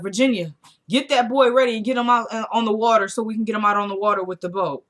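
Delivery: mild mock shout, orders rattled off; retold shout. Rusty telling Virginia to ready the boy, mock shout. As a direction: imitate calling orders to the back. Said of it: "he gonna shout in the back".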